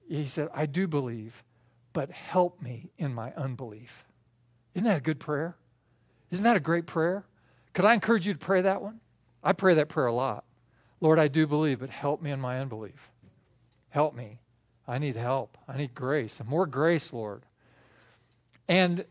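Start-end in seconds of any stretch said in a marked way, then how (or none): 0.5-4.0 softer, low, earnest plea; sincere, hopeful plea. Retold or imitated. Father answers Jesus, sincere and hopeful. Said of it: "the Father so sincerely, so, so hopefully". 11.0-17.4 low, hushed plea to God; earnest prayer. Acted. Preacher prays for help and grace, earnest and hushed.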